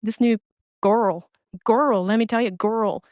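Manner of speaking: imitating her drawn-out "girl, girl"; lightly mock her pet word "girl"; mimicking her slang. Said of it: "The freaking word she uses".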